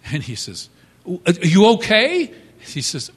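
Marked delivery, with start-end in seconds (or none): 1.1-2.3 high, loud worried call. Retold or imitated. Husband calls down to his startled wife, loud and high. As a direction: call down the stairs to check on her.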